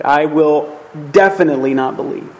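"definitely" set apart after a pause and stressed. Shown as a demonstration. Preacher restating Thomas's emphatic doubt, "definitely" stressed. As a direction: hold back, then land firmly on "definitely". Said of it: "in the original, you could say".

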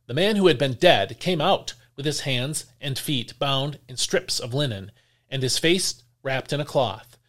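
measured, clear reading of the Gospel; scripture reading. Acted. Lector reading John to the congregation, measured and clear. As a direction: read the passage to the congregation with weight. Reads the Gospel passage aloud.

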